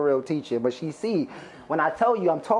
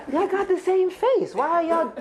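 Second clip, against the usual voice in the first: tag; 11 semitones higher than usual. Retold or imitated. Teacher baffled by twins.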